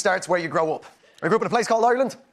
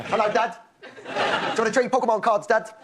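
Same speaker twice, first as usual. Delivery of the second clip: lightly imitated English child; son's English accent. English son asking Dad to trade cards, English accent. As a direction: mimic an English boy's accent. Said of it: "That's how he talks".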